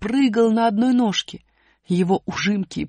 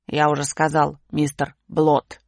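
чуть ниже и медленно, с ухмылкой; протяни с глумливой ухмылкой; насмешливый усатый; 4 semitones lower, slower than usual. Acted. (чуть пониженный глумливый голос усатого)

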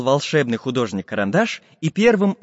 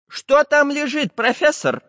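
puzzled questioning; 13 semitones higher, slower than usual. Acted. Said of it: "переспросил Самоделкин".

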